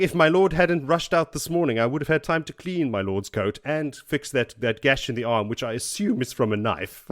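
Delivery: put-on English valet accent, starting high and loud, settling down. Manservant chiding his lord over a coat, high English accent. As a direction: reprove your master in a formal English accent. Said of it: "English accent".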